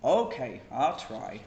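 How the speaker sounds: loud promise. Acted. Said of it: "can you keep it that way".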